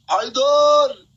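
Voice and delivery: high, loud, held shout; urgent name call. Real, not acted. Calls supporter's name urgently. (نداء صارخ عالٍ)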